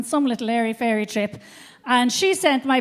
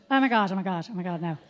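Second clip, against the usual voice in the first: horrified; 7 semitones lower, 6 dB quieter, faster than usual. Retold or imitated. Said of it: "she said".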